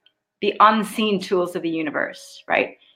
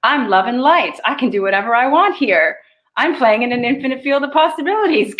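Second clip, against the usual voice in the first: lilting, joyful affirmation, a bit higher; upbeat radio station; 4 semitones higher, 3 dB louder than usual. Acted. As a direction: lightly play a blissful new station. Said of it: "tune into the new station that goes".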